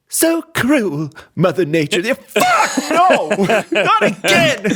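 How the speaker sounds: hammed-up anguish, laughing; mock despair. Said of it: "you're just like".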